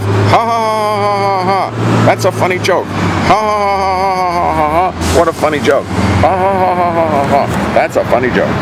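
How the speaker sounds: high, hammed-up fake ha ha ha; mock fake laughter. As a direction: laugh like a bad actor, then deadpan. Mocking the president's claim.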